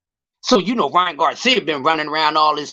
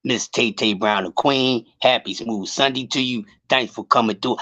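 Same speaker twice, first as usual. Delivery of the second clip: lower, smooth radio DJ greeting; 8 semitones lower than usual. Pretend. Greeting Tay Tay on air, mock radio voice. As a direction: croon it like a late-night radio host. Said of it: "I gotta get my radio voice on for Tay Tay".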